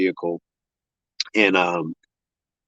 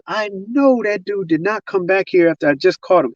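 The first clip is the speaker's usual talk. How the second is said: high-pitched, mock-indignant disbelief; retold rage; 8 semitones higher than usual. Jealous man spots the SUV he takes for his rival's, retold rage. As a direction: imitate an enraged man, voice pitched up. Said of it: "So he's enraged from the beginning".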